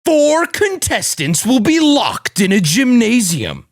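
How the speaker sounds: big projected trailer voice, drawn out; trailer announcer read. Acted. Re-recording his trailer audio for the stream, projected announcer read. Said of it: "Go harder".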